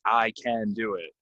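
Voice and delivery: I, can, do and it each punched slowly; every word stressed. Shown as a demonstration. Teacher demonstrating overstressing every word. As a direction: lean on every single word. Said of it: "really stressing every word".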